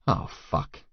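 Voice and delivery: hushed, breathless oh fuck; whispered curse. Acted. Narrator catching his own dirty thoughts, whispered. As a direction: catch yourself under your breath.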